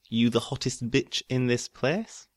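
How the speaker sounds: lyric read in a broad Yorkshire accent. Shown as a demonstration. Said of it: "I make it sound sexier with a broad Yorkshire accent".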